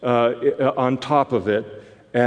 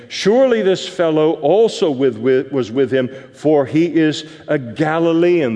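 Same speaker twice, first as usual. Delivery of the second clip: a mild, raised-voice accuser; accusing bystander; 4 semitones higher, 4 dB louder than usual. Pretend. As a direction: point the finger, pitched up a little.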